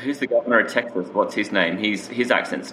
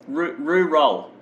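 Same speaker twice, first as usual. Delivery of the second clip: slow, higher-pitched repeat for clarity; slow clarification; 6 semitones higher, much slower than usual. Real, not acted. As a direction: say it slowly for someone who misheard. Repeats word for confused listener.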